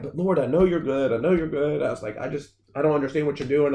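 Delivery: retold distress, insisting to God; freaking out, retold. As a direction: plead as if freaking out, no tears. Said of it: "so I'm freaking out, and I'm crying".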